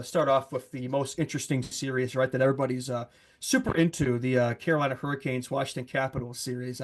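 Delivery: dry sarcasm, tongue in cheek; sarcastic. Real, not acted. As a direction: oversell it with a straight face. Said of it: "I was being sarcastic there".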